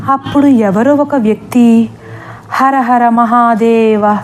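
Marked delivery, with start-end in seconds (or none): 2.5-4.2 slow, grave holy chant; solemn invocation. Acted. A holy man appears to the weeping girl, slow solemn chant. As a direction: intone it slowly like a sage. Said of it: "గంభీరంగా అనడంతో".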